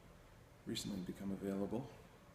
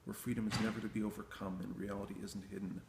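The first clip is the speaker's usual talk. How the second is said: measured, even-toned poem recitation; poetry reading; 3 semitones higher, 3 dB louder than usual. Acted. Poet reading selections from the new book, poetry recitation. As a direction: read verse aloud in long, steadily flowing phrases.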